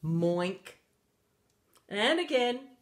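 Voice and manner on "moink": "Moink" with an oink ending; cow's muddled "Moink"; failed moo. A narrator's reading. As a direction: try for moo and land on "Moink". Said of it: "tried again".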